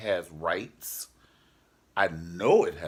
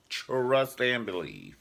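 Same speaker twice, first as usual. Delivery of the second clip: sassy; 4 semitones higher, 5 dB louder, slower than usual. Real, not acted. Sassy slow declaration.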